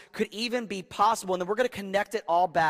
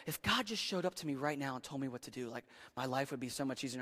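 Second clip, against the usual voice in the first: mock wishful quote; 4 semitones lower, 10 dB quieter, faster than usual. Youth voiced wishing God spoke.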